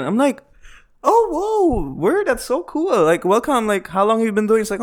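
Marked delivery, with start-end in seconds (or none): 1.0-4.6 mock impressed enthusiasm. Comedian greeting the other comic, mock impressed enthusiasm. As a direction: overdo the welcome, starting way up high. Reacting to new comedian, retold.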